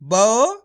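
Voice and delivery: ब said on its own; sounding out. Shown as a demonstration. Teacher sounds out the first letter. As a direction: isolate ब before blending. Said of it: "कैसे?".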